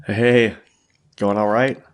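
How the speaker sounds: stuffy blocked nose; talking through a head cold. Real, not acted. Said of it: "sounds like a little under the weather".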